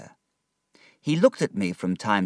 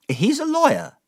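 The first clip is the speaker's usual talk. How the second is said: put-on higher, decided old aunt voice; brisk aunt; 4 dB louder than usual. Aunt deciding David's schooling, brisk. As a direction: set out the plan firmly.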